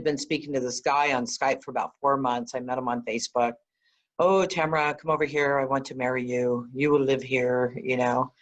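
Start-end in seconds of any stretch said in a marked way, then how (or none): 4.2-7.8 put-on a weak, half-hearted English accent; imitating a suitor's English accent badly. English accent for the suitor from Facebook, poorly imitated. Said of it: "I don't do an English accent very well".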